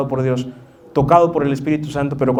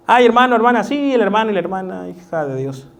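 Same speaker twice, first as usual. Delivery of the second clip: mock sugary greeting; 5 semitones higher than usual. Mocking habitual churchy greeting.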